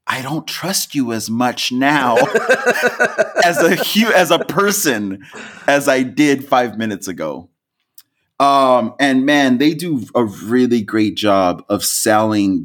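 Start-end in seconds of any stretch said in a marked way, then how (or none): 0.1-7.5 laughing. Retold or imitated. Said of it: "she sort of looks at me like".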